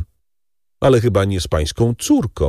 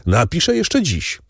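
higher, eager cry, jumping up; eager exclamation; 9 semitones higher than usual. Acted. Baron jumps from his chair promising the count to write, eager. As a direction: burst out ready to act. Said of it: "zawołał Danglars, zrywając się".

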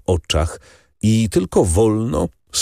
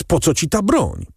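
much higher alarmed question; exclaiming; 10 semitones higher than usual. A narrator's reading. Son demands why father has the weapon, high and alarmed. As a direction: ask it high, frightened. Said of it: "wykrzyknął młodzieniec".

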